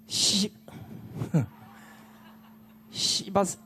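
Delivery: held-back curse. Real, not acted. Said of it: "욕을 안 하려고 하는데".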